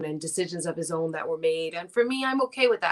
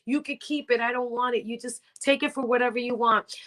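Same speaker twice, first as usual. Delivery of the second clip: higher, brisk, bossy excitement; eager; 5 semitones higher than usual. Retold or imitated. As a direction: give orders with delight. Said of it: "I was like".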